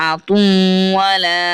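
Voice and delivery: আতুওয়ালা stretched slowly with a single vowel; slow correct reading. Shown as a demonstration. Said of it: "এটা হবে আতুওয়ালা". (ধীরে আতুওয়ালা, এক জবরে)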